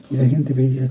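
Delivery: usual speaking voice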